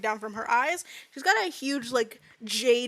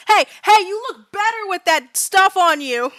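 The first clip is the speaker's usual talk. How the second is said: higher, louder heckling cheer; rowdy vampire cheer; 7 semitones higher, 7 dB louder than usual. Acted. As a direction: egg them on loudly. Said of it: "One of the vampires goes".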